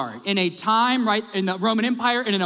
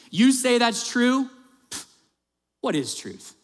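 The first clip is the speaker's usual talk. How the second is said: scoffing; 4 semitones higher than usual. Retold or imitated. Pilate scoffing at Jesus' claim, a mild mock sneer. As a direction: brush it off like nonsense, lightly hammed. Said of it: "scoffs at Jesus".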